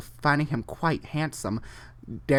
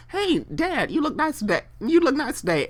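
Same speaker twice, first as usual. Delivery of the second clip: Jesus to God; 11 semitones higher than usual. Retold or imitated. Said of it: "if Jesus were to tell God".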